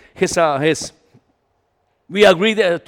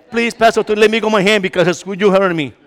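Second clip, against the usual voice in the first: louder mock pleading; pained plea; 2 semitones lower, 7 dB louder, faster than usual. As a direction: beg him to let go of your hand. Man pained by hard handshake.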